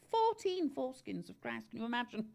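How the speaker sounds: high-pitched incredulous repeat; mock amazement. Explaining relics to Andy, high-pitched mock amazement.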